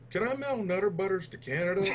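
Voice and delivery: high, eager voice; high excited question. Retold or imitated. Diesel asking his mom.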